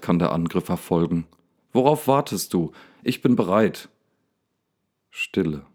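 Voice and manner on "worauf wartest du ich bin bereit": defiant, a touch higher; fearless. Acted. Daniel dares the lion in the dark, bold. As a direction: dare the beast to come. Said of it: "klingen die Worte furchtlos".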